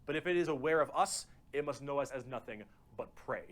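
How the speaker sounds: grave, ominous narrator reading; dramatic lore narration. Acted. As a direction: narrate it like a grim sci-fi prologue. Reads grim lore about Tyranids.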